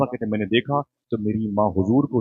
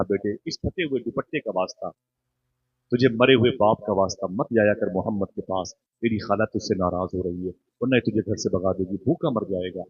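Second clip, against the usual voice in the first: soft, sorrowful plea, softer throughout; pleading mother; 4 semitones lower, 5 dB quieter than usual. Acted. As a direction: beg the son quietly, near tears. Widowed mother pleads with son. (माँ की धीमी, दुखभरी गुज़ारिश)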